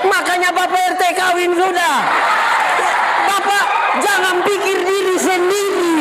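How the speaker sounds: high, sustained sermon shout; full-force preaching. Real, not acted. Pastor exhorting the neighbourhood head about marriage, full-force preaching. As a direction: preach it out, stretching the phrases.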